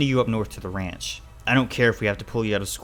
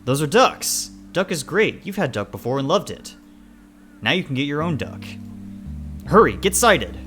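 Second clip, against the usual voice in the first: higher, louder eager father; excited urging; 6 semitones higher, 8 dB louder than usual. Acted. Father hurrying child to sight the ducks, excited. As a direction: urge the shooter on with punchy bursts.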